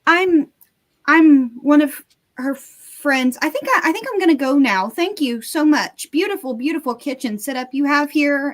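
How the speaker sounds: halting start, then flustered gushing; nervous excuses. Acted. Caught in the kitchen by an older woman, flustered. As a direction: stumble through an awkward polite exit.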